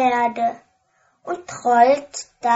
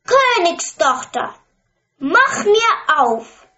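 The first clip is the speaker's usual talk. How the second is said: high, louder call; calling at the door; 5 semitones higher, 4 dB louder than usual. A narrator's reading. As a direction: frog calling through the door to the princess. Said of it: "Da ruft es".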